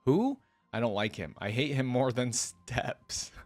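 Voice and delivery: measured first-person storytelling; story narration. A narrator's reading. Hero grumbling to himself about the steps, lightly acted narration. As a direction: read it as the hero's running thoughts.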